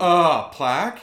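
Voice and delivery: slow, loud, breathless question; overplayed seductive gasp; sultry mock-aroused plaque. Mock seduction role-play.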